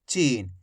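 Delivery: चीन with a long, stretched ee; drawn-out vowel. Shown as a demonstration. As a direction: stretch the ee in चीन, letting it fall. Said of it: "खींच खींच के पढ़ेंगे".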